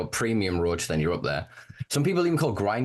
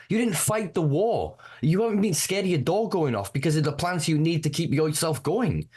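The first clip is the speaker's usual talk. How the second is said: fired up; 5 semitones higher than usual. Real, not acted. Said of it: "I'm getting fired up".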